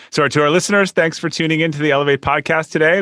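polished host outro read; podcast sign-off. Acted. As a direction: wrap up the show for listeners. Reads podcast sign-off to listeners.

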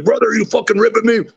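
high-pitched mock indignation; hammed-up, disbelieving protest; imitating incredulous Jake. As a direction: impersonate your buddy feeling he's been had. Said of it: "and he's like".

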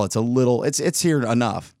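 strained, worn-out voice; hoarse voice. Real, not acted. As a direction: speak with a tired, hoarse throat. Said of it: "as you can tell".

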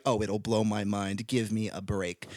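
slow, dry, unimpressed scoff; sarcastic. Retold or imitated. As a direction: roll your eyes at the hype. Scoffing at a hyped TikTok.

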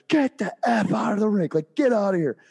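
high, loud order; angry eject. Retold or imitated. Coach kicking the heckler out of the rink, angry order. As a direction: throw him out. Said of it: "and I was like".

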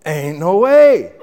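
slow, laughing disbelief; doubting laugh. Retold or imitated. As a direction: scoff at it with a chuckle. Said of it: "natural thing for this man to think".

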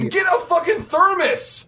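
very high angry outburst; furious retort. Acted. Storyteller rejects friend's excuse about the cup, furious. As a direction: cut down his excuse in exasperation.

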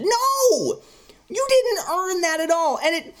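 emphatic no. Real, not acted. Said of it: "ranting about unearned ending".

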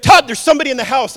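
high, loud, urgent warning; wife waking husband in alarm. Retold or imitated. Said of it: "she stood straight up".

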